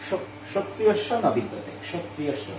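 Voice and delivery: সক্রিয় স begun with a faint k before "sh", as "kshotriyo"; barely touch the k at the start of সক্রিয় স; সক্রিয় স as "(k)shotriyossho"; light initial k. Shown as a demonstration. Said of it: "উচ্চারণটা হালকা হবে".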